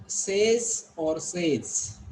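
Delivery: slow "says or says", contrasting sez with sayz; deliberate quiz on the vowel in "says"; two pronunciations offered. Shown as a demonstration. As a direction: offer "says or says" as short-E versus long-A. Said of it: "How you'll pronounce it".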